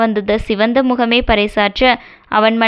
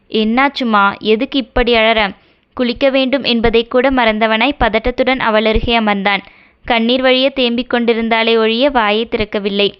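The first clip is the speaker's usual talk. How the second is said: story narration. A narrator's reading. Narrator reading a Tamil romance novel chapter to channel listeners, steady storytelling. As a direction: read the chapter like an audiobook.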